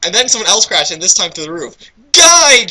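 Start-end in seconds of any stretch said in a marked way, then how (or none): 2.1-2.7 loud high call of guide; mock shout of guide; shouted name. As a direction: yell it out across the room. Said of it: "shouted V".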